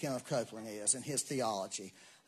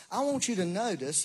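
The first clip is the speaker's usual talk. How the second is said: louder, higher, emphatic quote; preacher's address to audience; 5 semitones higher, 5 dB louder than usual. Retold or imitated. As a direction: press the point on the congregation. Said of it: "then he said this".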